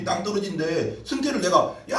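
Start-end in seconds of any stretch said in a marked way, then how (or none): 1.9-2.0 drawn-out, raised-pitch warning call; warning shout. Acted. Preacher shows shouting to save someone from a cliff, warning shout. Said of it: "하고 소리 질러서 잡아줘야지".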